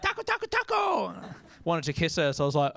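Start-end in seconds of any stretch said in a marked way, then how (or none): 0.0-1.1 put-on much higher, playful girlish chant; sing-song it like a teenage girl teasing. First girl he kissed teasing him, high mock chant. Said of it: "she was like".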